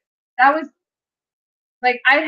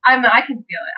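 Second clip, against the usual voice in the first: real emotion breaking the voice; starting to cry; 3 semitones higher, 4 dB louder than usual. Real, not acted. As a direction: let the tears come through as she talks. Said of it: "I'm starting to cry a little bit".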